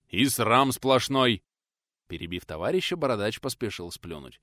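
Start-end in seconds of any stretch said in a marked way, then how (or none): 0.1-1.4 slow, disgusted exclamation; pious outrage; scandalised. Acted. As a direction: spit out the shame. Milovan scandalised.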